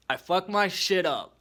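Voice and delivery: loud, drawn-out lament; loud slow exclaim. Real, not acted. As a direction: belt it out slowly, half laughing. Showing off broken tooth.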